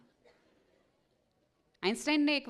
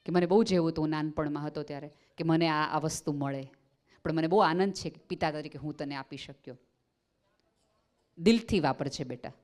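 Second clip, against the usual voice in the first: lovingly; 3 semitones lower than usual. Shown as a demonstration. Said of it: "બહુ પ્રેમથી કયો".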